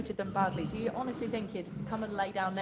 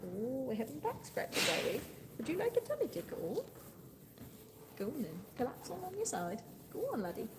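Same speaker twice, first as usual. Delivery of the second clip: soft, lilting pet talk; cooing to pig; 4 semitones higher, 8 dB quieter than usual. Real, not acted. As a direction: coo gently to an animal, pitch sliding up on questions.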